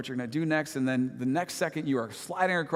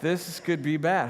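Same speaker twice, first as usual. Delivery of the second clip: slow, higher-pitched worried thought; mock slow motion; 4 semitones higher, slower than usual. Crashing rider thinking while sliding, slow motion. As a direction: draw it out like a crash replay. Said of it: "in slow motion, like".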